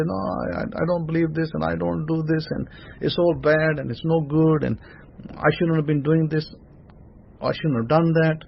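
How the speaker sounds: a hint of a whiny doubter; mild mock complaining. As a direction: grumble as the other side of the mouth. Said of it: "And the other side you say".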